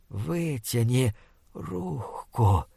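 slow, hushed, rotting monster voice. Acted. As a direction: drag each word like a dying beast. Monster orders captive.

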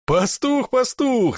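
high, loud horse-laugh repeat; neighing laugh. Acted. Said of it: "заржал дубинщик сивым мерином".

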